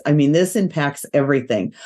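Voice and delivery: stuffy nasal voice from allergies. Real, not acted. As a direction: talk through a blocked, nasal nose. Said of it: "in my little nasally voice".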